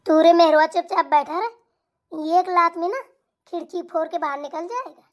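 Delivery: put-on loud old woman's threat to her son; threatening mother-in-law. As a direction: snap a threat at him like a fierce mother.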